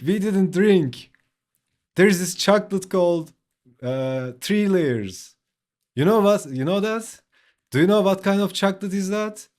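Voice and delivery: high, loud, rushed protest; frantic denial. Retold or imitated. Teen insisting to his mom it wasn't the gin, high frantic protest.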